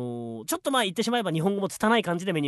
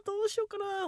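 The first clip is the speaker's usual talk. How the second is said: put-on customer voice; 13 semitones higher, 3 dB quieter than usual. Sketch, customer regrets eating.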